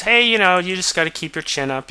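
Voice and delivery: high, bright encouraging mother; pep up the sad kid like a sitcom mom; cheery mom. Retold or imitated. Mom cheers up her son.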